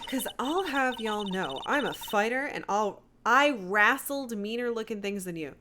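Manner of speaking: combative Southern twang, punched openings; Southern US accent. Acted. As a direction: warn them off like a feisty Southerner. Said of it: "I don't like doing Southern accents at all".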